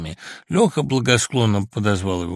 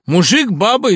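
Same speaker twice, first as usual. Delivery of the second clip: high, loud startled yelp; frightened cry; 10 semitones higher, 9 dB louder than usual. A narrator's reading. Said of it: "испуганно вскрикнул Лёха". (испуганный вскрик)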